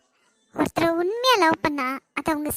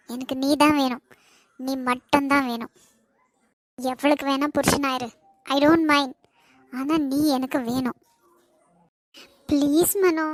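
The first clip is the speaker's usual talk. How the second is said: tearful pleading; 5 semitones lower than usual. Acted. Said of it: "இப்ப எதுக்கு அழுவுற நீ?".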